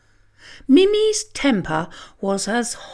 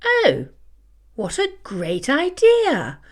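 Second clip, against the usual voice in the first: purring; 3 semitones higher than usual. Acted. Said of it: "purred Mimi".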